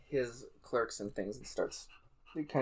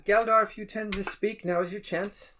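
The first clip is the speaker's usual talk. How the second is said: NPC voice; 8 semitones higher, 4 dB louder than usual. Acted.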